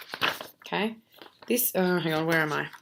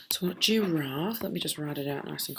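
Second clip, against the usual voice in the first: whispered aside; 2 semitones lower, 7 dB quieter than usual. Real, not acted. Teacher muttering while writing.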